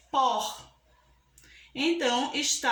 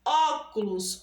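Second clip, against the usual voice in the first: "Óculos" with a long, strong Ó; teacher's weighted first beat on "Óculos"; stressed first syllable; slower than usual. Shown as a demonstration. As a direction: lean on the Ó of "Óculos". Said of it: "o ó".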